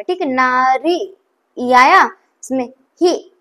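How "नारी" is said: नारी in two stretched syllables, ना then री; light ee sound. Shown as a demonstration. Teacher pointing out the ई sound, syllable by syllable. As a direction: separate ना and री to expose the ee. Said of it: "थोड़ा सा हल्का सा ई type sound".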